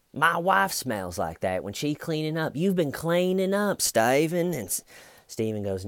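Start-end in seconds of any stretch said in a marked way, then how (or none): 0.1-4.5 very high-pitched detective impression; hammed-up, high accusing voice; mock accusation. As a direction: mimic a detective pouncing on a clue. Imitates detective pressing the suspect.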